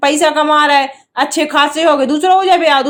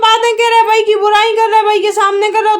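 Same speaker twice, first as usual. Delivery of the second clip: higher, continuous scolding; raised voice; 4 semitones higher than usual. Real, not acted. Wife scolds husband for criticising her, raised voice. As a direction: argue back insistently with a lifted voice. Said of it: "इतने तेज चिल्ला रही हो तुम".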